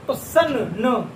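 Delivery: slow, drawn-out सन then न, sounded out carefully; slow example word. Shown as a demonstration. Teacher slowly sounds out the example word for students. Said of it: "जैसे हम लोग बोलेंगे सन".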